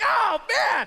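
hammed-up high dismayed cry with a laugh; laughing fake groan of disappointment; mock dismay. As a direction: play the crushed listener, laughing. Mock listener disappointed at spoiler.

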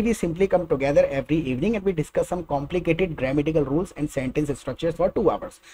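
slow, careful English for learners; measured teacher English; slow clear English. Shown as a demonstration. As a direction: spell it out slowly in English. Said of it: "English said slowly for learners".

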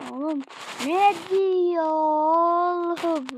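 stretched disbelief. Real, not acted. Baffled by the game.

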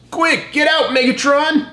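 high, urgent mock yell; Decepticon's shout. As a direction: hurry him out in a squeaky cartoon voice. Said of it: "Decepticon shouts".

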